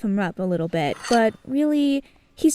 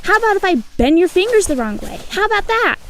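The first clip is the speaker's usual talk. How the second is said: threatening; 5 semitones higher than usual. Acted. Threatening Victor to get off her.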